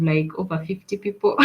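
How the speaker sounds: usual speaking voice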